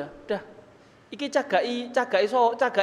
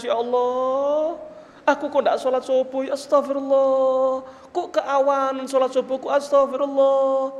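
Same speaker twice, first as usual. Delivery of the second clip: mock tearful lament; 3 semitones higher than usual. Imagined worshipper wailing over a missed dawn prayer, mock tearful lament. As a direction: act out wailing regret, stretching the endings. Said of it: "Pernah jenengan nangis".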